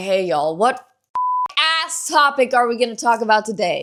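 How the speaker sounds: hammed-up, exaggerated, overly lively intonation. Opening a video with a new style to get views: exaggerated intonation. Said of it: "change the intonation of my voice much more".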